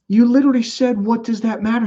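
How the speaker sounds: high teasing echo in the friend's voice; mock quoting. Friend to Mike, high teasing echo of his answer. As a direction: throw his words back at him playfully. Friend mocks Mike's words back.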